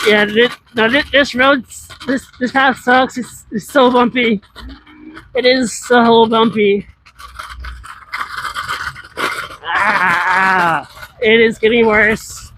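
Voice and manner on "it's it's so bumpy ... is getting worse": voice shaking. Real, not acted. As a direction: voice shaking from bumpy ride. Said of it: "I'm voice shaking so much".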